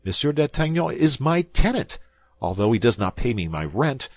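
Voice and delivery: high, loud insistent protest; crying out. A narrator's reading. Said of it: "cried Bonacieux in his turn".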